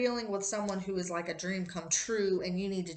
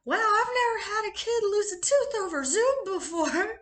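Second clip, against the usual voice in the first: amazed; 12 semitones higher, 6 dB louder than usual. Retold or imitated. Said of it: "the teacher was like".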